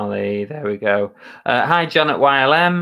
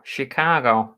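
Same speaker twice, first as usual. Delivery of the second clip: put-on Chicago accent, badly done; poor Chicago accent. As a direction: have a bad stab at a Chicago accent. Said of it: "Is that the right accent for Chicago?".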